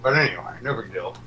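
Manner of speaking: talking around a cigarette; words slurred by cigarette between lips; cigarette in mouth. Real, not acted. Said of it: "what are you chewing?".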